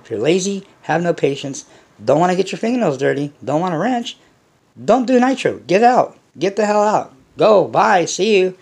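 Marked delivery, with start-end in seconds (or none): 2.2-8.6 dismissive rant. Real, not acted. Telling lazy hobbyists to leave.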